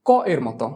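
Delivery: ক said as a hard k; hard K sound. Shown as a demonstration. Teacher gives students the rule for C, hard K on ক. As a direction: say ক clearly as a k. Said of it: "উচ্চারণ হবে".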